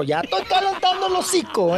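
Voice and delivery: high, laughing warm-up line; laughing character voice. Acted.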